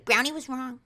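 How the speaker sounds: high mock-mom gripe; complaining mom. Mom next day about brownie, nagging.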